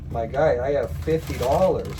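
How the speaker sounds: plain firm insistence; firm retort. Retold or imitated. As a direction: tell him flatly what you have. First refusal to scammer.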